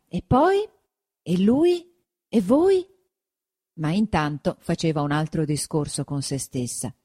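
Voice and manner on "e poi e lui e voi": higher, eagerly pressing questions; eager prompting. A narrator's reading. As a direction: feign keen interest to keep her talking.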